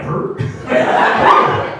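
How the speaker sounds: high, loud stunned huh; baffled huh. Retold or imitated. Comic reacting in his head to the mom, high stunned huh. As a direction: squeak out a shocked huh. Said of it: "in my head I was like".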